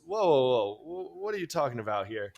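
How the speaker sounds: put-on light New York accent for the Buddha; a hint of New York street talk; joking New York accent. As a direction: object like a casual New Yorker. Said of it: "The Buddha's suddenly from New York".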